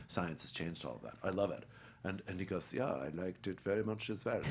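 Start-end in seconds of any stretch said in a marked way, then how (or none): 2.7-4.4 put-on low-key German-accented agreement; Anthony Hopkins. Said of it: "he has this German accent".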